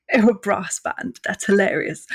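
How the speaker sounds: patronising imitation; mocking amusement. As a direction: mimic a condescending listener, drawing out the words. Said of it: "being like".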